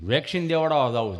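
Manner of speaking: lightly voiced stammerer, pitched low; low, halting imitation of a friend; stammering friend. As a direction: get stuck before the words come out. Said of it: "જીભ જલાઈ સોટે અટકે".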